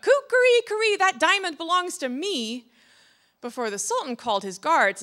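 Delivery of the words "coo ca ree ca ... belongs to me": high rooster crow, easing as it goes; crying out. A narrator's reading. Rooster on the sultan's window, crying out. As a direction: crow out the complaint. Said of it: "crying out".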